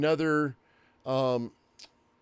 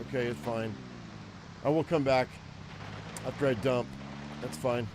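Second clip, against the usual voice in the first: ordinary delivery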